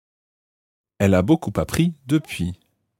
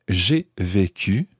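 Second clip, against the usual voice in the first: careful model phrase; slower than usual. Shown as a demonstration. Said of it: "teacher models the phrase".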